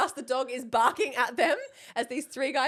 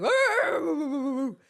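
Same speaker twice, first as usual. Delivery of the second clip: high, loud mock dog howl; imitating dog howl; 4 semitones higher, 5 dB louder than usual. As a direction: howl like the barking dog, playfully. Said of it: "So the dog starts going".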